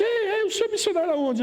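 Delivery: high, lightly voiced young woman asking; moça brasileira. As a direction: imitate the girl's eager question. Pastor imita a moça. (voz aguda imitando a moça)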